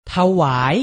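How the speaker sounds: ถวาย said carefully as tha-wai, rising tone at the end; careful teaching read of ถวาย; pronunciation model. Shown as a demonstration. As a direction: model ถวาย for learners in two syllables. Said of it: "ออกเสียงพร้อมๆพี่ไทยให้ถูกต้อง".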